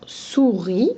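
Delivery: "souris" drawn out slowly in two syllables. Shown as a demonstration. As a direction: stretch "souris" so both syllables stand out, second one rising. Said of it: "on va enlever la première". (« souris » lentement, syllabe par syllabe)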